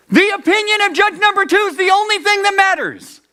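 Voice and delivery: high-pitched, full-throated declaration; forceful proclamation. Acted. Preacher reminding us what we were told, crying out. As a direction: cry it out on one high sustained pitch.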